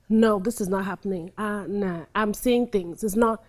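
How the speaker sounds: low, soft murmured denial, trailing to a whisper. Shown as a demonstration. Teacher demonstrating the betrayed wife's denial, quiet murmur. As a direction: mutter it to yourself, refusing to see. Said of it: "denial comes immediately".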